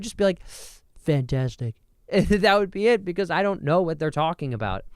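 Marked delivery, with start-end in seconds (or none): 1.0-1.8 Trump impression. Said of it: "I used to do the Trump".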